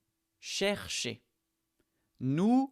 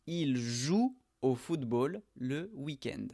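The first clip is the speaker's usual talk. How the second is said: slow model sentence. Shown as a demonstration. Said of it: "On ne le prononce pas".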